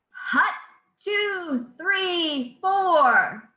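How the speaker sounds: high clipped hut two three four; drill cadence. Shown as a demonstration. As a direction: call it like a drill sergeant. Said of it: "sounds like this".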